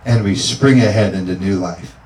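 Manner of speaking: preacher praying with fervor; fervent prayer. Acted. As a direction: pray it out with conviction. Pastor praying over congregation.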